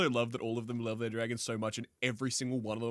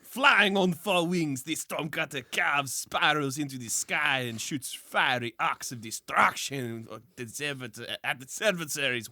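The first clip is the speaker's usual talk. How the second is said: put-on French accent; 2 semitones higher than usual. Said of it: "I'm going to do this one in a French accent".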